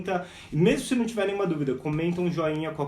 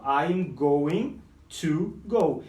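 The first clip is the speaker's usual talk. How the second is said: "I am going to go" drawn out very slowly; slow teaching model; slow demo; much slower than usual. Shown as a demonstration. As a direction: spell out each word slowly. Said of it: "ó".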